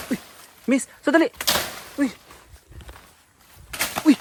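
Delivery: calling after the woman as she runs, shouting. Real, not acted. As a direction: shout for her to wait.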